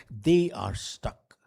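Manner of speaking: slow unvoiced whisper. Shown as a demonstration. Speaker repeating to the audience that they are stuck, slow whisper. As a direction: let it sink in with a hushed whisper.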